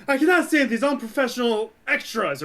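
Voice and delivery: lightly imitated Scottish accent, high; a hint of Scottish actor complaining. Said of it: "drops the accent to his Scottish accent and says".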